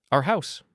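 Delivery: staking a claim on "Our house"; possessive emphasis. A narrator's reading. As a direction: hit both words of "Our house" high and hard. Father asserts ownership in quarrel.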